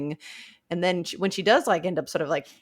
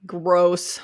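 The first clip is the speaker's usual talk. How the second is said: unvoiced whisper of distaste; whispered disgust. Real, not acted. Co-host reacts to the lover reveal, whispered disgust.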